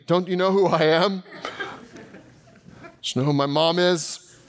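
mock entitled. Entitled guest mocking herself at the hotel, laughing. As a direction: play the spoiled VIP, half-laughing.

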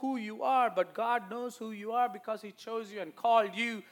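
emphatic preacher's address; preaching. Real, not acted. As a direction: preach it, building to the last words. Preaches to the congregation.

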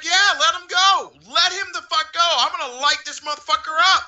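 high, fired-up dare; heated, high-pitched bravado; retold fighting challenge. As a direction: goad them into a fight. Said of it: "And I was like".

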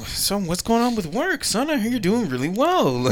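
proud parent. Retold or imitated. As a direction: talk like a proud dad to his son. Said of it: "They're gonna ask him questions".

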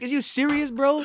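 put-on high, incredulous older brother; hammed-up are-you-kidding-me; imitating a shocked brother; mock disbelief.

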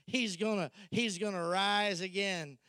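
a hint of a sermon tone; preacher mode. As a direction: preach it at her gently. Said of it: "he's switched into preacher mode with her".

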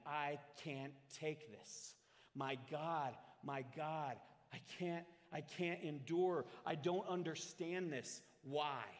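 imitated cry of agony, understated. Jesus cries out as God withdraws, restrained anguish building. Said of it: "he's screaming out in agony that".

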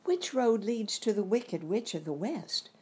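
put-on hushed girl's whisper. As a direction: whisper as if the witch might hear. Dorothy asks the way to the witch.

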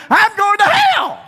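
high, loud, laughing through it; giddy high confession; laughing admission. Retold or imitated. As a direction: admit it with a laugh. Man admits it laughing.

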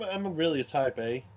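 natural Brooklyn accent, New York vowels. Real, not acted. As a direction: talk in your own Brooklyn accent. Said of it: "this is a real Brooklyn accent".

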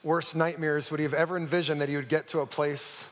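hushed, intimate storytelling; story narration. A narrator's reading. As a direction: draw the congregation into the story. Story narration before sermon.

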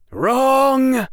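a loud, high barked correction; sharp shout. A narrator's reading. Quirrell shouts at Harry for straightening up, loud. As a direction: snap the verdict at him.

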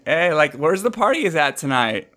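lightly put-on Californian Valley Girl; Valley Girl student. High school student asking about parties, Valley Girl. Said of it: "a Valley Girl, Californian high school student".

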